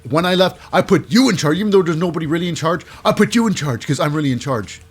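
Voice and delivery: mildly hammed-up reprimand; mommy scolding. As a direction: act out an upset boss laying blame. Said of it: "because Mommy says".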